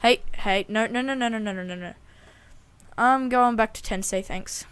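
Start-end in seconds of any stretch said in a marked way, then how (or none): 0.1-1.9 rapid panicked no's; frantic, backing away from danger. Real, not acted. Bear charging.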